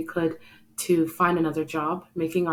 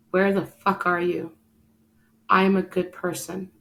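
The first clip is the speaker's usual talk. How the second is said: a mild mock yell at God, reliving the frustration; retold yell at God; 2 semitones higher than usual. Alone in her living room, yelling at God, a mild mock yell. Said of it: "I yelled and I yelled at God".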